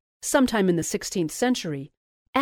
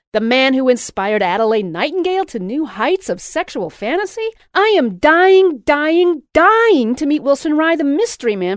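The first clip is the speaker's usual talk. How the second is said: high, loud, insistent gushing; excited shouting; 6 semitones higher, 8 dB louder than usual. A narrator's reading. Louise shouting she must meet Wilson, high and loud. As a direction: demand to meet him, swooning. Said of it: "she shouted".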